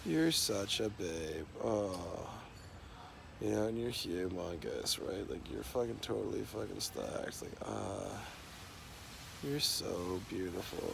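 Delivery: slow, soft swooning; pretend sweet-talk. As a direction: savour each compliment, slow and quiet. Sweet-talking an imagined girlfriend.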